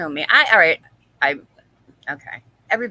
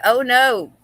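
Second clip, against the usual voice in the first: mock alarmed cry; 3 semitones higher, 9 dB louder than usual. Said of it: "And she said".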